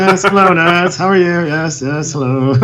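put-on slightly overdone upper-crust British accent. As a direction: imitate a British greeter with an old-school accent. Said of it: "He's British".

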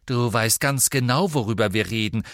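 loud, sharp rebuke. Acted. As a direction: cut him off sharply. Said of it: "sagte Hermine scharf".

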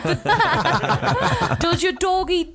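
words bubbling out between laughs; laughing. Real, not acted. Joking to friends about the stoner's dog, laughing. Teasing a stoner over the dingo joke.

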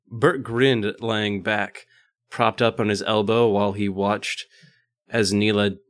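measured read-aloud voice; story narration. A narrator's reading. Reading an erotic story to co-hosts, narrating. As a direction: read it out as prose, evenly.

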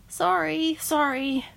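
put-on high, startled girl voice; frightened girl. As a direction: blurt it out, high and scared.

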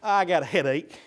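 a soft, low, put-upon wife; mock weary wife brushing off husband; mock headache excuse. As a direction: sigh out a lazy excuse. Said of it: "women, this is when you say".

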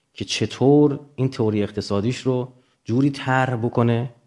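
ordinary talk, nothing marked

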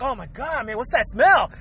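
understated fake disgust; feigned innocence. Culprit acting for the person coming, feigned innocence. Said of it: "then you start acting".

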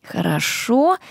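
usual speaking voice

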